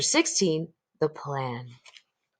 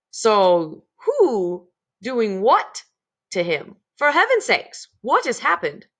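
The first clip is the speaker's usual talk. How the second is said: yelled; 4 semitones higher, 4 dB louder, slower than usual. A narrator's reading. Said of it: "as he yelled".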